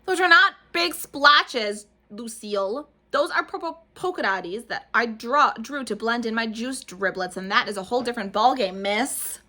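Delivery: loud, slow, huffy retort; indignant yell. A narrator's reading. Junie yelling back at Lucille, loud and indignant. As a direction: put her in her place loudly. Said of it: "heard me yelling".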